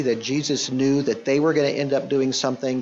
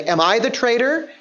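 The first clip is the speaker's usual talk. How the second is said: expecting no; 9 semitones higher, 4 dB louder than usual. Shown as a demonstration. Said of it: "expecting a no answer".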